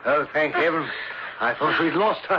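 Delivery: high frantic yell; shouting stop. Acted. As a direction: scream stop, then gasp in relief. Uncle shouts then feigns relief.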